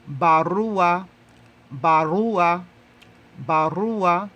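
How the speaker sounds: barua drilled three times, firm and clear; Swahili model word. Shown as a demonstration. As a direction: model barua firmly for learners to echo. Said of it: "you would say".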